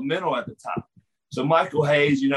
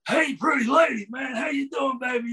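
catcalling wrestler; 9 semitones higher than usual. Retold or imitated. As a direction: holler it like a wrestler leaning out of a car. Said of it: "Hayes being like".

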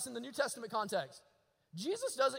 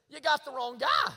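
louder, higher protest with a rising end; raised protest; 5 semitones higher, 7 dB louder than usual. Retold or imitated. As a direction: protest that God picked wrong. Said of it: "what he says is".

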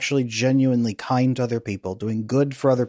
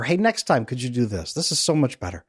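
kind partner correcting. Retold or imitated. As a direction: correct him kindly, no blame.

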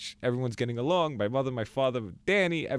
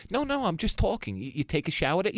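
innocent mom; 7 semitones higher than usual. Retold or imitated. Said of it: "I said".

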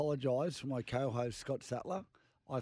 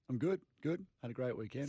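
croaky voice. Real, not acted. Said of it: "the rusty voice".

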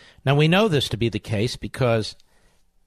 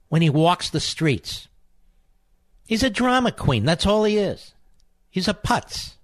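higher, heated scorn building; contemptuous rant; 5 semitones higher than usual. Real, not acted. Host scorning Baldwin on air, heated and pitched up. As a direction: sneer at him and keep rising.

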